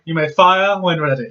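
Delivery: low, slow cold command; Tarkin impression. Tarkin ordering the Death Star to fire, cold and slow. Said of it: "he's like".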